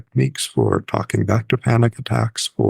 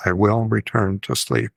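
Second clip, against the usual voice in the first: gently sing-song, evenly measured; lightly sing-song sleep mantra. Shown as a demonstration. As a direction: recite it as a rhythmic mantra. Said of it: "saying it in sort of a sing-song voice".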